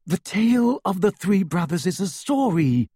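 firm, certain statement. A narrator's reading. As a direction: state it firmly. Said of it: "said Hermione firmly".

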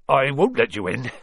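out of breath, puffing. Acted. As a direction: puff it out breathlessly. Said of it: "he puffed".

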